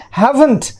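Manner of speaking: haven't said as HAV-unt; model pronunciation. Shown as a demonstration. Teacher shows students the pronunciation of haven't, modelled clearly. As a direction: say "haven't" clearly in two beats, second one reduced. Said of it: "pronunciation देखिए".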